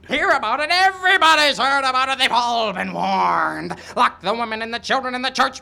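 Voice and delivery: excited loud warning. Acted. Old man excitedly warns of raid.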